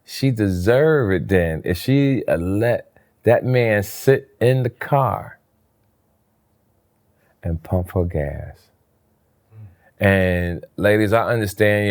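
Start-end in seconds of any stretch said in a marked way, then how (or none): 0.0-8.7 muttering to himself. Retold or imitated. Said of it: "And I said to myself".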